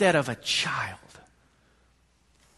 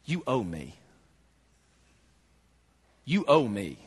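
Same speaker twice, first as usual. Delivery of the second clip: entitled grumble; 4 semitones lower than usual. Acted. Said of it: "what they're saying is".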